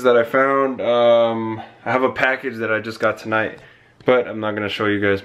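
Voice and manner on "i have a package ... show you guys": breathless after leaning over; out of breath. Real, not acted. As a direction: talk while catching breath. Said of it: "I'm out of breath right now".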